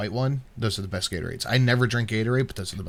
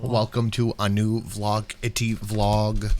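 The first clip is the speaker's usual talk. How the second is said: robot voice; 3 semitones lower than usual. Pretend. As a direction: drag each word out like a machine. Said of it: "Why are you speaking like a robot?".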